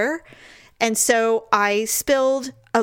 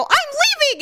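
theatrical exit cry; mock storming out; 3 dB louder, much faster than usual. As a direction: announce a huffy exit, hammed up. Retold storming out.

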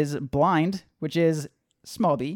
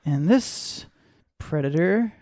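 creepy hammy voice. Pretend. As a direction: ham up a creepy podcast host. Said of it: "I'm gonna be doing my hamming it up voice".

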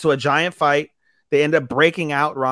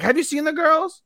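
put-on squeaky girl voice; 14 semitones higher than usual. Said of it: "They're like".

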